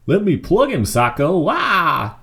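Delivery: high, loud squawk; eager squawking duck. Acted. Duck begging Sacco to shoot the lawyer loudly.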